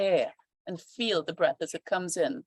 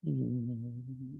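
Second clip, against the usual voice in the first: throat breath; 8 semitones lower, 9 dB quieter than usual. Shown as a demonstration. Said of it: "let's try some Ujjayi breath".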